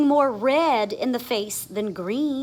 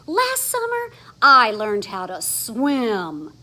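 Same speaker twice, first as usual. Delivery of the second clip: proud announcement; 6 dB louder than usual. Acted.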